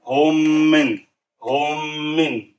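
"hommin" with the two meems joined into one long held m; merged meem. Shown as a demonstration. Teacher shows students the joined meem, held long. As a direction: hold the doubled m in "hommin" smoothly. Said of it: "idgham means join them together".

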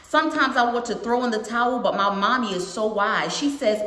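put-on lilting read-aloud to a young audience; storybook narration with singsong rhythm; picture book read-aloud. A narrator's reading. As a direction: read it out brightly, line by line.

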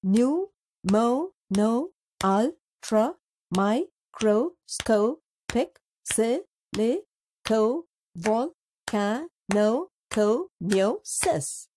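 pneumono-ultramicroscopic silicovolcanoconiosis spelt out slowly, each syllable clear. Shown as a demonstration. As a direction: break the long word into slow separate syllables. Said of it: "The longest word in English is".

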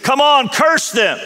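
king losing patience, drawn out; impatient demand. Acted. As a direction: lean on every word, exasperated. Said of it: "Balak says".

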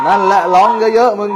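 loud, high, scolding yell at the spirit; scolding shout. Real, not acted. Scolding the possessed grandma spirit.

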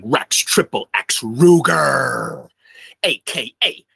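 slow, drawn-out ring-announcer flourish; stage-name announcement. Real, not acted. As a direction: roll out the stage name slowly. Showman introduces his stage name.

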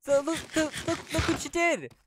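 high, loud, stammering mock outrage; outraged monkey. Monkey yelling about his hacked-off tail, outraged. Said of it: "And he was like".

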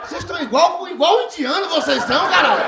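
teasing the crowd with exasperated disbelief; exasperated laughing jab at the crowd; mock scolding. Real, not acted. Comic scolds laughing audience.

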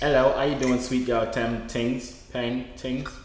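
attempted British slang accent; put-on British accent. Streamer showing off British slang to caller, put-on British accent. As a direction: try out a British greeting accent. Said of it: "I'm activate British mode".

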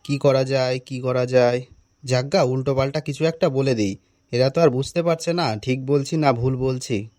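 low-pitched thinking aloud; cornered aside. Acted. Teacher plots bluffing the pupils, low private aside. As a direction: drop well down in pitch, as if to yourself.

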